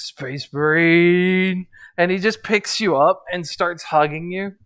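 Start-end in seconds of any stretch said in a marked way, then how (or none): 0.0-1.7 slow ogre greeting. Acted. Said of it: "he just bends down and goes".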